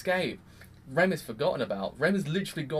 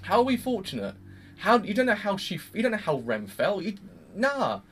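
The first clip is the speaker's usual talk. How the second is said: indignant; 4 semitones higher, 3 dB louder than usual. Retold or imitated. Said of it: "Subaru basically says".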